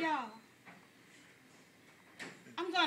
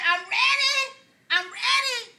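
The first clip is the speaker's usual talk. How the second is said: higher, louder, bursting with eagerness; eager church member; 8 semitones higher, 7 dB louder, slower than usual. Retold or imitated. Church member telling pastor she's ready, excited. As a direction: plead like you can't wait another second.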